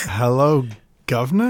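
mock British. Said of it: "I'm not sure if I'm Australian or British".

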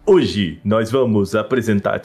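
slow, stiff presenter delivery; measured corporate announcement, slowly; slow formal cadence. Retold or imitated. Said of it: "É que eles falavam nessa cadência".

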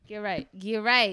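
firm rising command; loud urging. Real, not acted. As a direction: push them to drink. Urging a shot.

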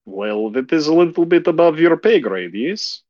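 lofty stranger brushing him off; haughty vampire woman. Acted. GM voices vampire G.

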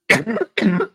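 harsh real cough; coughing fit. Real, not acted. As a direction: hack out a rough cough. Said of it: "Ya me dio un ataque de tos otra vez".

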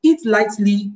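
measured pace, "lightly" given weight; stress on lightly. Real, not acted. Teacher restating the advice, deliberate emphasis on "lightly". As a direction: underline "lightly" by slowing on it. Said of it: "Emphasis on the word lightly".

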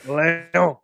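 Lyon said the French way as "Lio", with a falling tune; French pronunciation. Shown as a demonstration. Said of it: "his perfect French accent".

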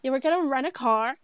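American accent on rent a car; American wording. Shown as a demonstration. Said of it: "Yeah, it's different".

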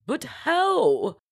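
very high, swooping disbelief; astonished duchess. A narrator's reading. Duchess questions the rescue claim, astonished. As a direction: swoop up in bewilderment. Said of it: "the Duchess stuttered".

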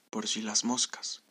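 soft, slow murmured aside; murmured whisper. A narrator's reading. Jeremías takes an umbrella just in case, murmured softly. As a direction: say it quietly, as if to oneself. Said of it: "susurró".

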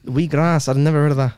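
put-on Irish puzzlement; mock Irish; Irish accent. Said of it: "your Irish accent".

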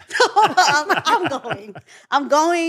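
loud, laughing through the words; giggling as she insists. Real, not acted. Telling friends she's going anyway, laughing loudly.

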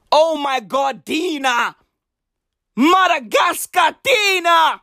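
high hyped-up yelling; excited shout. Real, not acted. Shouting praise for Madagascar.

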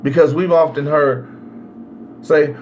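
ordinary talk

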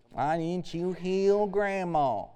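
slow, soft whine at God; whiny complaint. Retold or imitated. Preacher mimics a churchgoer asking why God failed, slowly. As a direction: voice a grieving complainer.

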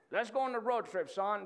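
put-on playful, lightly done Southern accent. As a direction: try on a good-ol'-boy Southern accent. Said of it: "I'm trying my Southern accent right now".

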